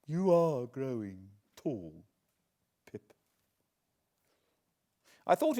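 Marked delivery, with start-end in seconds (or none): 0.1-3.1 slow, lightly voiced old lady; a hint of an old woman's displeasure; lightly voiced displeased old lady. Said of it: "with some displeasure".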